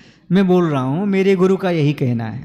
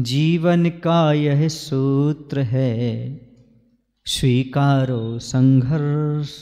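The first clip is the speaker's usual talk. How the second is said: very slow, drawn-out couplet; measured, stately chant-like verse delivery; verse recitation; much slower than usual. Acted. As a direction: recite it with long stretched vowels. Recites couplet, then restates it.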